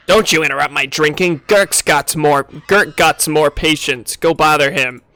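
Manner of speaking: gruff brute voicing a surly hunter; lightly voiced pig-faced brute; gamorrean hunter. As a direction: read it like a rude pig-man shooing you off.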